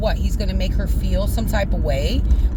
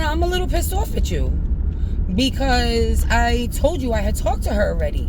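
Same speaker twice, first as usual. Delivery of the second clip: retold annoyance; 3 semitones higher than usual. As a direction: let him know you are a bit pissed off. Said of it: "let it be known that I was pissed off".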